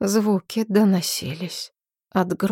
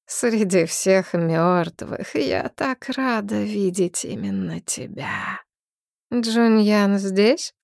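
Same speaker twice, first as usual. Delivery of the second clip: ghostly voice; slower than usual. Acted. Dead mistress speaks to heroine.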